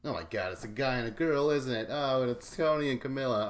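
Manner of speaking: imitating an excited fan; mock excited realization. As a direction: act out the realization. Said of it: "you said it's hot".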